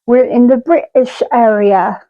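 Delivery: a mock British accent, lightly done; a hint of a British accent; terrible British accent. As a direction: put on a bad British accent. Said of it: "Yes, I know that was a terrible accent".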